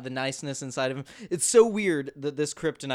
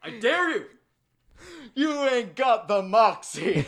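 high, mocking dare; taunting heckler; 7 semitones higher than usual. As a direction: egg her on from the crowd. Taunting her to jump.

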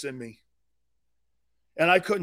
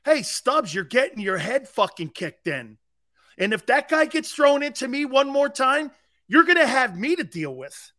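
raised, higher-pitched warning to a teammate; on-field threat; 5 semitones higher, 4 dB louder than usual. Acted. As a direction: chew out a struggling teammate mid-game. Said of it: "talking to people like".

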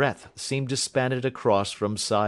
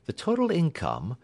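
higher, precise detective voice; Holmes reporting; 4 semitones higher than usual. Acted. Holmes reports to Watson on the will, precise. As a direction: announce the finding crisply, pitched up.

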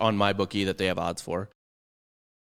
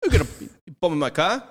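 mock tough guy; 8 semitones higher, 4 dB louder than usual. Mock accent after oi banter.

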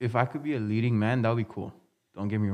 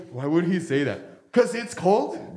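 villain voice; 4 semitones higher than usual. Retold or imitated. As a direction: stretch out the last words. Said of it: "He's like".

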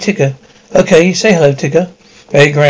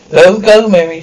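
desperate call; 5 dB louder than usual. Acted. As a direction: call after her in panic. Pleading as girl leaves.

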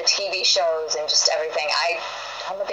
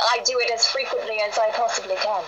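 high, lilting posh English accent; 4 semitones higher than usual. Shown as a demonstration. Guest demonstrating for the English host, high English accent. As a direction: gush happily in refined English. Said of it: "I love to talk with an English accent".

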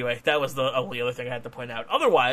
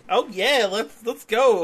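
higher-pitched, drawn-out mock enthusiasm; imitated hype; 7 semitones higher, 4 dB louder, slower than usual. Voicing the hula hooping wrestler in the ring, imitated hype. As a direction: play an upbeat wrestler raring to go. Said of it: "She's just like".

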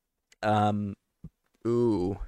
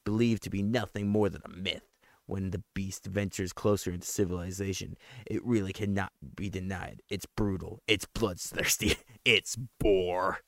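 horror trailer voice. Acted. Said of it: "went through, like, five different accents".

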